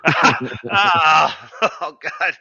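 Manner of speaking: pained cries from a cramping hamstring; groaning through a hamstring cramp. Real, not acted. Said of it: "sorry, my hamstring's cramping".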